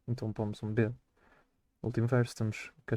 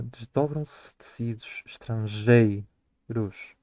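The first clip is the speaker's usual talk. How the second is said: 'desdobram-se tecidos estrangeiros' drawn out slowly to count syllables; slowed-down scansion of the verse; 5 dB louder, much slower than usual. Shown as a demonstration. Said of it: "nós precisamos de ir à última sílaba tónica".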